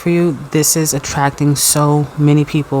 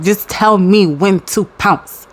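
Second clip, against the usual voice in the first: cat voice; 3 semitones higher, slower than usual. Pretend. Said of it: "The cat is like".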